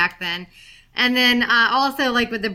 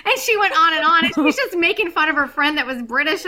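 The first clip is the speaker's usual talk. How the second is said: normal talking voice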